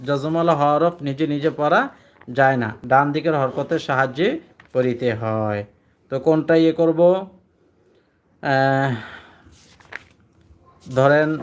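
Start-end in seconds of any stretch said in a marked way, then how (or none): 0.1-5.6 recited rule. Shown as a demonstration. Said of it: "কি পড়ছি?".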